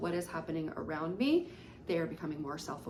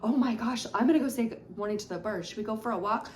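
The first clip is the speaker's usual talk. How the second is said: bright, excited and quick, a bit louder; teacher hyping up a walk for a child; cheerful excitement; 3 semitones higher, 4 dB louder, faster than usual. Shown as a demonstration. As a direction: turn the moment around with eager cheer. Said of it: "narrating this environment".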